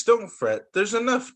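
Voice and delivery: high little mouse voice; mouse squeaks. Acted. Mouse comforting bear, lightly squeaky. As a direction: squeak it out reassuringly. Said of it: "Mouse squeaks".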